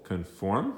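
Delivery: "conform" with the accent on the second syllable, -FORM; stress on second syllable. Shown as a demonstration. Teacher showing the class where the accent falls in "conform", stress on FORM. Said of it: "accent on the second syllable".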